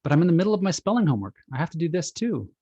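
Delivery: put-on a child outraged at the interruption; indignant. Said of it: "Child is indignant".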